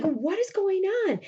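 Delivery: high, slow, insistent question; anxious demand. Retold or imitated. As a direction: act out a worried demand for answers. Roxanne demands answers, acted.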